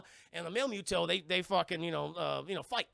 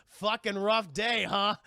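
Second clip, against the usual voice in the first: louder, slow, tired sigh of a line; weary Godzilla; 6 dB louder, slower than usual. Retold or imitated. Godzilla wearily greeting the exhausted hero. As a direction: drag it out like after a long shift.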